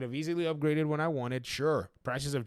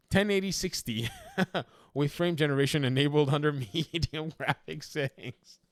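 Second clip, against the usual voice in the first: laughing. Real, not acted. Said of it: "I don't know why I'm laughing".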